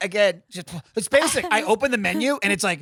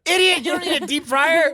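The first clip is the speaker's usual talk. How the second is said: mock scornful, higher-pitched retort; talking down; 7 semitones higher, 3 dB louder than usual. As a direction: imitate someone berating an idiot. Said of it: "talking down to Nick".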